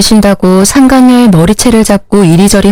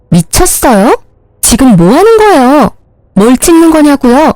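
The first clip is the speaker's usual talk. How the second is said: rising indignant questions, pitched higher; indignant mistress; 4 semitones higher than usual. Acted. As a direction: demand to know why she's photographing. Mistress confronts the photographer. (상간녀의 높아진 따지는 목소리)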